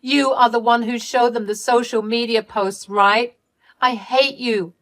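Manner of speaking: furious yelling. Acted. Candy screaming at Ellie for the loudspeaker trick, high and loud. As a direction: tear into your sister. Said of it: "called me back to scream at me".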